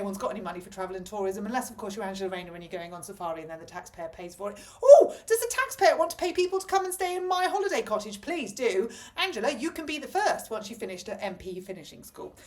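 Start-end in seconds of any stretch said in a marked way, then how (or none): 4.8-8.9 sarcastic. Real, not acted. Sarcastic offer to the taxpayer.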